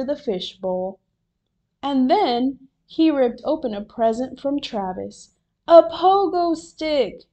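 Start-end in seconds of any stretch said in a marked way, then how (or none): 5.7-7.2 high, loud delight; raised, thrilled exclamation; excited shout. A narrator's reading. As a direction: shout out the gift in glee. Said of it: "he shouted".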